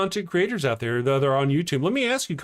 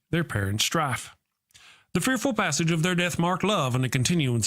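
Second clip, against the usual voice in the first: dramatic recitation. Acted. Performs Romeo prologue.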